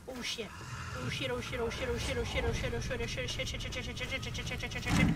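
rapid repeated panicked cursing; real fear, muttered over and over; panicked muttering. Real, not acted. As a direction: babble it in rising panic. Panicking as a monster appears.

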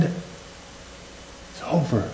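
slow, whispered doom; menacing whisper of the accuser; accuser's whisper. Acted. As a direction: breathe it like a sinister secret. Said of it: "That's the voice of the accuser".

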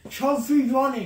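cheeks stuffed full of marshmallows; mouth full. Real, not acted. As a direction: talk through a mouthful of marshmallows. Chubby Bunny marshmallow challenge.

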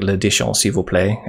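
amateur attempt at French pronunciation; atrocious French accent. Shown as a demonstration. Tutor showing the little French they know, atrocious French accent. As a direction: say it like a learner's rough French. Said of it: "my accent is probably atrocious".

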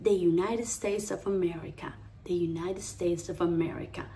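"The United States of America" linked smoothly and softly; gentle, connected "The United States of America"; pretty, flowing English. Shown as a demonstration. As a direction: let "The United States of America" flow, soft R. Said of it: "que deberíamos decir súper linda".

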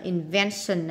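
"invention" stressed on the second syllable. Shown as a demonstration. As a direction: hit the middle syllable of "invention". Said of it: "là nhấn âm hai".

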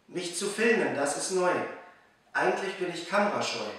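measured rhymed-verse reading with pauses between lines; poem recital. Acted. Reciting a New Year poem for viewers learning German, measured poem recital. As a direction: recite it line by line, letting each rhyme land.

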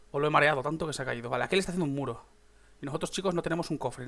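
ordinary talk

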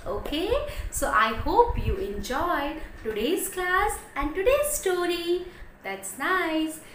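put-on bright, lively teacher voice for little children; animated story-time teacher; storytelling to kids. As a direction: tell it like a kindergarten teacher.

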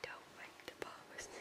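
soft unvoiced whisper. Real, not acted. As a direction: hush it so nobody wakes. Whispering beside sleeping baby.

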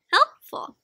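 helpful popped up high; sing-song reveal. A narrator's reading. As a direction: lift helpful way up like a surprise. Reveal word in story.

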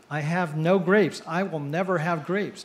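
slow, emphatic exasperation; exasperated manager. Retold or imitated. Store manager fed up with a duck asking for grapes, exasperated. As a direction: spell it out slowly to a pest.

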